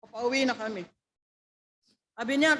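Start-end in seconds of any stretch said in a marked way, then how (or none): none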